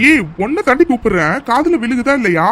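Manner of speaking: impatient demand for attention; hasty, heated call. Acted. Husband calling his silent wife, hasty and impatient. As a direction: call out impulsively, mildly cross. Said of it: "ஒரு வேகத்துல வேற கூப்பிட்டுட்டோம்".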